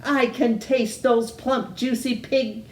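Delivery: high, greedy witch voice; gleeful witch. Acted. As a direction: cackle out her craving, lips smacking. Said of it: "Gritch said, smacking her lips".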